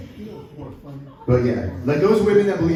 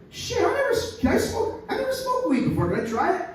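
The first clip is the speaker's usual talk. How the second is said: very high squeaky eager voice; excited gecko; 14 semitones higher than usual. Acted. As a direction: squeak like an eager little critter. Gecko asks to smoke.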